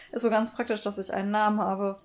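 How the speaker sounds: a lightly voiced cheerful boy with giggles; cheery NPC. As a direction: play him as a pleased, laughing youngster. Reads cheerful NPC Jack.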